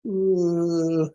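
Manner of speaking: high, drawn-out mock "uh"; deer-in-headlights stupor. Speaker mimicking the perplexed seminar audience, stunned high drone. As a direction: imitate a stunned crowd with a long high "uh". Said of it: "like a deer in the headlights".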